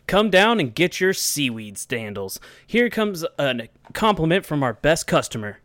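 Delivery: ad announcer. Acted. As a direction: sell the sandals like a TV ad. S1 performs a fake seaweed sandal ad.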